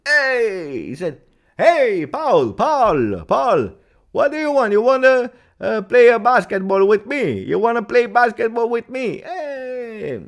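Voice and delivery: loud, high hammed-up calling out; imitating Allegri. Allegri on the phone calling Pogba to join, loud high mock shouting. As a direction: shout up high like a coach yelling across the court. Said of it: "if I need to imitate Allegri".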